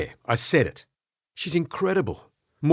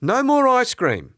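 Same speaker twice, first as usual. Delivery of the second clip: high, loud and slow scold; slow firm ban; stern scolding; 13 semitones higher, 6 dB louder, slower than usual. Acted. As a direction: lay down the law. Sadie scolds about ice cream.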